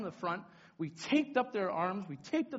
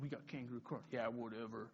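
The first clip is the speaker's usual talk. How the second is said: low, much softer mimicry; dismissive aside; 9 semitones lower, 9 dB quieter than usual. Kids brushing off kangaroo court, low dismissive aside. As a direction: toss it off low and quiet. Leaders warn, kids shrug it off.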